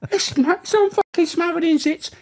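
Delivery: high, loud mock moan; whining prisoner. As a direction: complain like a sulky inmate. Retold prisoner complaint.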